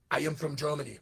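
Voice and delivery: half-hearted mock German accent; weak German accent. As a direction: attempt a German accent without much conviction. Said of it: "That's my weak Germany accent".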